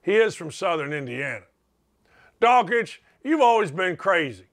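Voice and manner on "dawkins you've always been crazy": imitating neighbor. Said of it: "It's my neighbor".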